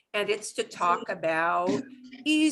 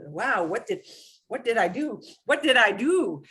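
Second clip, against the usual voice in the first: mock hurt surprise. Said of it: "por qué tan formal".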